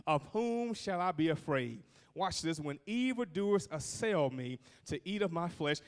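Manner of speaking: measured, declamatory psalm reading; scripture reading. Acted. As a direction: proclaim the psalm with steady confidence. Reads the psalm aloud.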